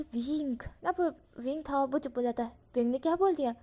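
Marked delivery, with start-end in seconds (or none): 0.0-0.6 warning look. A narrator's reading. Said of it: "eyes में बोलती है".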